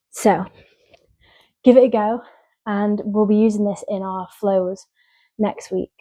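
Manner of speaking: breathless after exercise; out of breath. Real, not acted. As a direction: talk while catching your breath. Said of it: "I'm really out of breath".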